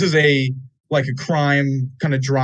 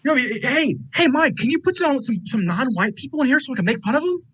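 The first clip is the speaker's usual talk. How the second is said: high, hammy clueless guy; mock innocent request, pitched up; goofy dumb voice; 9 semitones higher than usual. Voicing Wahlberg asking Bay.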